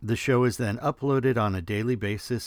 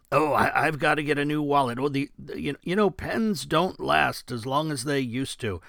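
a light take on fast, stammering radio host patter; Kimmer impression; 4 semitones higher than usual. A podcaster lightly imitating the radio host's rambling. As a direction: rattle off half sentences like a talk show host. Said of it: "Kimmer's style ... Don Imus type delivery".

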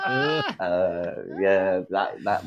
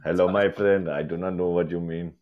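put-on Asian accent that drifts toward Indian; careful mock Asian accent, slightly low; attempted Asian accent; 3 semitones lower than usual. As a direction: try a broad Asian accent. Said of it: "can you do, like, a Chinese or".

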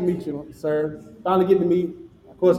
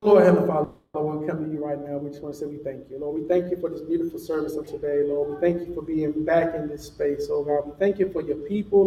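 fervent benediction prayer; praying aloud to the congregation. Acted. Leads closing benediction prayer.

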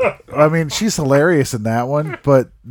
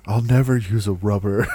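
quoting lyric; 4 semitones lower than usual. Retold or imitated.

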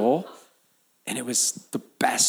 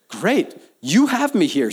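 higher, louder, daring God to act; bold challenge to God; 7 semitones higher, 6 dB louder than usual. Shown as a demonstration. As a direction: throw down the challenge to God, loud and high. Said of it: "I love challenging God in this way".

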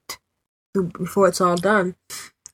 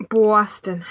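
Boston said with a broad New England accent, r dropped. Shown as a demonstration. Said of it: "I'm saying it with my New England accent".

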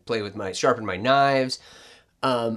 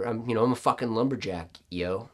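bro voice; 2 semitones lower, 4 dB quieter than usual. Pretend. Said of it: "you just did the bro voice".

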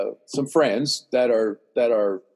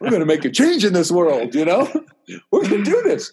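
excited, higher-pitched rallying cry; pumped up; 4 semitones higher than usual. Retold or imitated. Telling how the plan pumped him up, excited. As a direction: act out getting fired up. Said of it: "I'm getting pumped".

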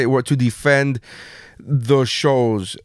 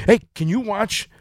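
imitating mad wife; 3 semitones higher than usual. Wife demanding he watch the trailer, mock mad. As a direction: act out an irritated demand, lightly. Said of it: "like, she's mad".

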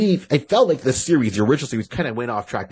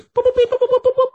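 high, loud computer beeps; robot beeping; 7 dB louder, faster than usual. Acted. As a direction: beep like a calculating robot. Acting the robot calculating taxes.

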